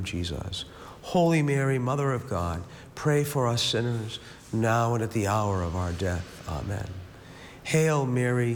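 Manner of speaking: measured, rhythmic prayer cadence; praying aloud, each Amen dropping away; rosary recitation. Real, not acted. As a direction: recite familiar prayers in an even, practised rhythm.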